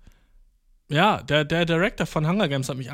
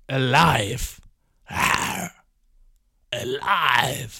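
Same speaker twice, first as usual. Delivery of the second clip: ecstatic cry; 3 semitones lower, much slower than usual. Real, not acted. Ecstatic proclamation.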